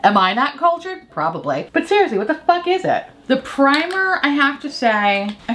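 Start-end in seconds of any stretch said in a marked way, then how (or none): 0.0-1.1 exasperated. Real, not acted. Exasperated questions to viewers. 1.7-3.0 exasperated. Real, not acted. Exasperated question to viewers.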